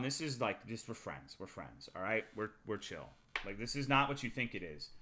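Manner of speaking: quiet, low retold reassurance; low-key reassurance. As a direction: play it down softly to a parent. Playing down friendship to his mom.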